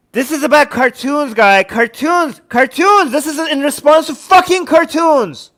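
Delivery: incredulous anger, rising on the repeats; exasperated outburst. Real, not acted. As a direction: build into exasperated disbelief. Exasperated rant about cartoons.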